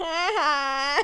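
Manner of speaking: nasal, whiny, drawn-out laugh. Describing him turning back on the bicycle, Steve Buscemi nasal ha ha. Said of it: "his nasally voice turning back and going".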